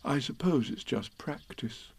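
soft, slowish musing; thinking to himself. A narrator's reading. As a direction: ponder it privately as Pooh. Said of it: "he thought".

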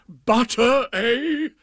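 high, loud, rising exclamation; suddenly perked-up royal cry; delighted king. A narrator's reading. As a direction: pounce on it with glee. King delighted butter has arrived.

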